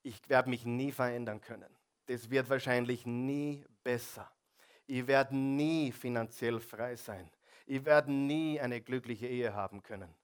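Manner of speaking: hopeless inner voice. Retold or imitated. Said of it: "wer hat manchmal hoffnungslose Gedanken".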